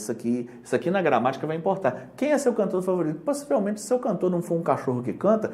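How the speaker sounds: normal talking voice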